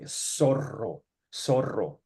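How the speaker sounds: zorro slow with a trilled rr; rolled R. Shown as a demonstration. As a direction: roll the rr in zorro. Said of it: "share an example".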